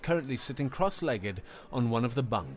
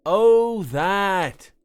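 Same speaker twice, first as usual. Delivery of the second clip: amused; 7 semitones higher, 11 dB louder than usual. A narrator's reading. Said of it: "had the audacity to laugh".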